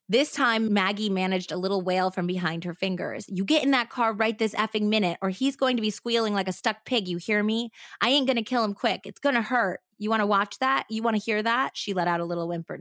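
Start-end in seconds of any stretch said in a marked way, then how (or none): 3.3-11.8 lightly voiced snarling threat from a knife-wielding woman; menacing captor. Knife-wielding woman threatens the girl, lightly voiced menace.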